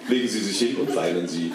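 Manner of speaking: normal talking voice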